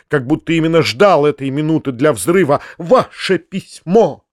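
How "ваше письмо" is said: flaring up. Acted. Foma tearing up the uncle's letter, ranting. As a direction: explode into a shrill tirade. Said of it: "мгновенно воспламеняясь".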